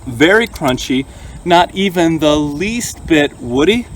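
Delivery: talking while chewing; words round a bite of food; mouth full. Real, not acted. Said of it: "Don't talk with your mouth full".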